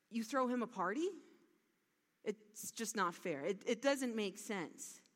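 mild angry complaint; a touch of resentful protest, not once stressed; furious. Retold or imitated. Older brother protests to his father, mildly angry. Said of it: "And he was furious".

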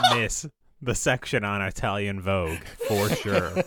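amused, emphatic urging with laughs breaking in; laughing insistence. Real, not acted. Co-host urging a friend to see the scene, laughing. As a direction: insist through real laughter.

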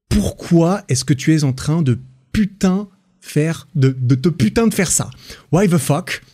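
exasperated retelling. Acted. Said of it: "je traduis".

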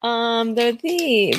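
talking while crunching chips. Real, not acted. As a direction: mouth full of chips. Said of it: "I'm gonna be munching on some chips".

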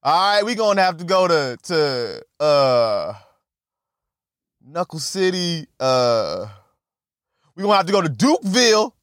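fast, hyped threat; telling the rival to fight, fast and pumped; tough guy. Retold or imitated. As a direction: rattle off the threat quickly.

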